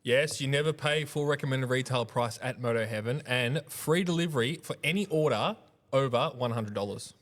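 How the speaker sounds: steady, scripted sales plug; sponsor ad read. Acted. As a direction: read out the offer like a podcast sponsor spot. Reads sponsor message.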